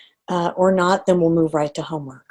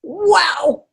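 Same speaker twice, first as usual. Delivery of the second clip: a high, bright cry of wow; surprised wow; 9 semitones higher than usual. Shown as a demonstration. Coach showing a calm new reaction, surprised wow. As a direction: let the surprise burst out in one word. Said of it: "go something like this".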